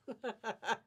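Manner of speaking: light, delighted chuckle; amused chuckle. Real, not acted. Seller about to show the next fabric, amused chuckle. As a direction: chuckle at what's coming.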